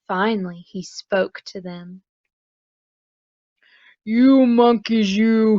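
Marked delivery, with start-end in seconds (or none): 4.0-5.6 louder scolding, finger wagging; a mild scold at the monkeys; scolding peddler. Acted. Peddler scolds the monkeys in the tree, mildly cross. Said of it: "he said, shaking a finger".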